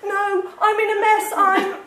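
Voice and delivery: high, upset and faltering; close to tears. A narrator's reading. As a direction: break off as the tears threaten. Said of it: "making it very difficult to talk".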